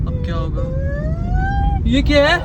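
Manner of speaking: high-pitched, panicked gasping questions; frightened. Acted. Lone vlogger spotting a strange hand in the dark, frightened. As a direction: jolt with fright, voice shooting up. Eerie sound and hand appear at night.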